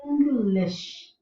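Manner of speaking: English drawn out syllable by syllable; slow demonstration word. Shown as a demonstration. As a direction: say English slowly and carefully, as a model. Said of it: "that's how we write phonetically".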